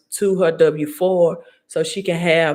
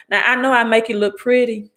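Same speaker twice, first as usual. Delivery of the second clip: put-on Southern Mississippi accent; 5 semitones higher than usual. Host joking to live viewers in a Southern Mississippi accent. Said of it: "I said that in my Southern Mississippi voice, accent".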